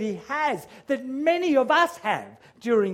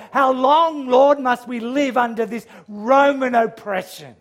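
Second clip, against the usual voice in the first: crying out; 3 semitones higher, 5 dB louder than usual. Acted. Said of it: "they were crying out".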